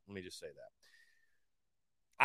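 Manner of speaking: drawn out, slow and low; slow emphatic repeat. Real, not acted. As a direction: say it slowly, dragging each word.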